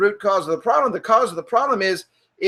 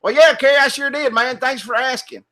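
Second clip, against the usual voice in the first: country hick; 4 semitones higher than usual. Shown as a demonstration. Customer replying to Kerry, put-on country talk. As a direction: answer like a folksy country buddy. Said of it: "you talk kinda like a hick".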